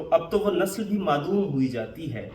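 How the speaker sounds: lightly declaimed verse; Urdu couplet recitation. Acted. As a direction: recite the sher as one measured couplet. Recites the couplet once more.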